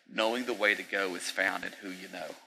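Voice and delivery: P=A; phrased slowly. Shown as a demonstration. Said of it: "I'm gonna say it like this".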